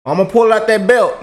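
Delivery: high, loud mock mama yell; mama threatening the kids over a torn CD, high and loud. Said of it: "mama used to scream and say".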